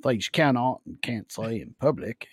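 put-on Australian official; Australian government spokesman justifying the rules; Australian accent. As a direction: explain it in a mock Australian accent. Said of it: "That's a good accent".

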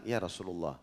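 low, soft voiced aside; retold confidential whisper. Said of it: "dibisikin Nabi sama dia, dia takut orang lain dengar". (menirukan bisikan dengan suara pelan dan rendah)

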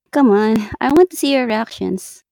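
giggling, teasing coax; laughing tease. Real, not acted. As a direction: laugh while egging on.

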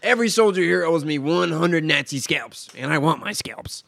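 loud, drawn-out war-movie speech; slow, forceful mock military orders; film commander impression. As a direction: address the troops like a movie officer. Quoting Inglourious Basterds commander's speech.

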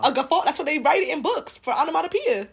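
giggling while explaining; laughing. Real, not acted. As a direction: talk through a laugh. Laughing at the word.

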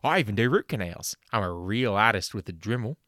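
loud, brash Aussie ad-man voice; hammed-up Aussie huckster selling dental work; fake ad pitchman. Host doing a spoof sponsor ad, loud Aussie pitchman. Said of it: "a word from our sponsors".

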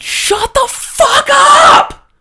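high, slow roaring yell; furious shout. Retold or imitated. Angry neighbor screaming at noisy soccer boys at night. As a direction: bellow it to shut them up. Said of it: "and I yelled at him".

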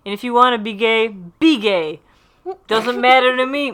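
hammed-up loopy friend; mock high-on-meds buddy; loopy Ross. Ross loopy speech, retold.

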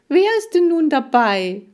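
loud, high, demanding shout; calling after. A narrator's reading. Hamster calls after the girl leaving, shouting. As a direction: yell the question after someone leaving. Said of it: "rief ich ihr nach".

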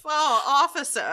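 overacted panicked caller; frantic wailing. Mock frantic police call.

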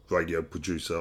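weird Australian accent. Real, not acted. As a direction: say it with an Australian twang. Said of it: "I said that in a weird Australian accent there".

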